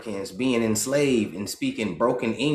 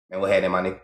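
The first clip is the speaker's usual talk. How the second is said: low, easy rolling street greeting; Ebonics cadence; 3 semitones lower, much faster than usual. Shown as a demonstration. Demonstrating the flow of Ebonics to viewers, relaxed. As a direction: lay it back, let it flow. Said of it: "you hear the Indian".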